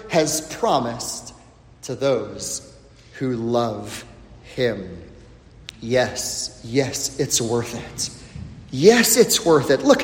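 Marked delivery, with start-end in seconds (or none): 0.1-5.0 slow, soft, much lower and quieter; slow hushed reading. Acted. Slows and drops scripture ending. 5.8-8.1 quiet, low reassuring yes; soft affirmation. Acted. Quiet answer to the question.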